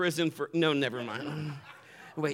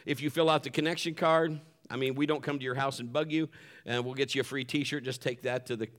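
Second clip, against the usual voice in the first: normal talking voice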